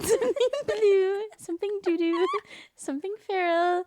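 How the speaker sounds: high giggling chant; laughing singsong. Pretend. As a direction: giggle through the list. Laughing wedding rhyme parody.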